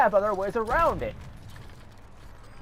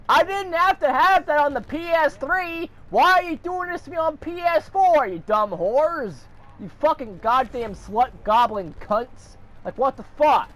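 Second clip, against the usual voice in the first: high-pitched furious rant at the console maker; real indignant ranting; angry rant; 9 semitones higher than usual. Real, not acted. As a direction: let the outrage spill over, pitch up high. Ranting at PlayStation over membership.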